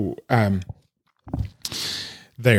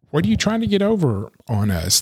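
higher-pitched challenge; imitated indignation, pitched up; accusing client; 7 semitones higher, faster than usual. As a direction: mimic a suspicious client confronting you. Voicing clients who accuse the lawyer.

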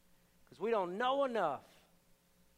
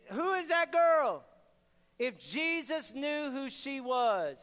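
pious Pharisee; 3 semitones higher, slower than usual. Retold or imitated. Pharisee sneering at the woman who came uninvited. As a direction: look down your nose and sneer it out. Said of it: "he looked down his pious nose".

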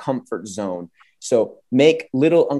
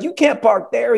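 high hammed-up warning; lightly voiced Big Papi calling out; 10 semitones higher than usual. Big Papi warns the driver, high mock call. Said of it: "He's like".

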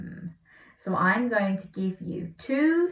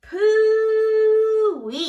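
high, loud roar of disgust; giant roaring; 10 dB louder than usual. A narrator's reading. Giant roaring at a bad smell. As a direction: bellow it out in disgust. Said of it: "roared the giant".

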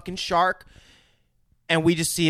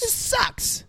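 much higher, cartoonish shark griping; a cartoon shark annoyed at its mouthful; 4 dB quieter than usual. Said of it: "And he's like".

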